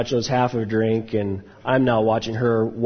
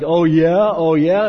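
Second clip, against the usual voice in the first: mock yell; 5 semitones higher, 6 dB louder, slower than usual. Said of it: "I start yelling at this guy".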